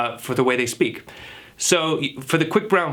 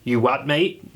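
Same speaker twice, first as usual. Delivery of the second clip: lightly put-on British; a hint of baffled British speaker; British accent; slower than usual. Native British speaker not understanding, light British accent. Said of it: "to a native British speaker".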